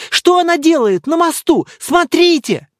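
high, loud frightened shout; girl's alarmed shout. Acted. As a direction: cry out in alarm at the bridge. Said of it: "вдруг закричала одна из девочек". (девочка в ужасе кричит, высоко и громко)

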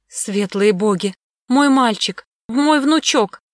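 loud, desperate grandmother's cry; frantic cry. Acted. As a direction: cry out in panic for the boy. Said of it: "воскликнула истошно Медведева". (истошный крик)

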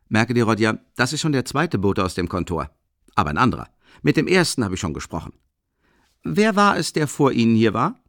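high, loud and boisterous, a big clumsy student; hearty booming Rasumichin. Acted. Rasumichin ducking into the tiny room, loud and hearty. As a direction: fill the cramped room with your voice.

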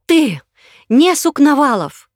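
high, loud, accusing; woman unmasking an impostor, defiant; defiant challenge. Acted. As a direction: fling it at him as a challenge. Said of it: "бросила это ему как вызов".

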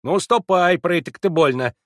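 put-on high, loud bossy old servant voice; commanding. A narrator's reading. Servant Mavra scolding Alyosha, commanding and loud. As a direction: lord it over the boy from the doorway.

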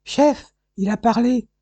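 high, loud call to the boss; excited cry. Acted. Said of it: "s'écria un employé".

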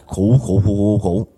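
mock hacking cough; imitated retching cough. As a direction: cough it out in short repeated bursts. Imitating the vomiting just described.

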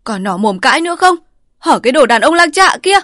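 high, loud scolding outburst; wife snapping furiously at her husband. A narrator's reading. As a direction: lash out at the cheating husband. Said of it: "quạc vào chồng".

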